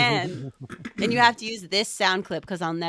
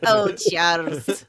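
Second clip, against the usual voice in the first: Moira's Scottish accent; 5 dB louder, slower than usual. Shown as a demonstration. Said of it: "Give us some Moira".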